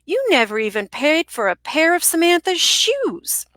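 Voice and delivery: put-on mean Southern accent, hissing the end. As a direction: sneer it like a mean Southern man. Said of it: "he sounded like your character, the accent".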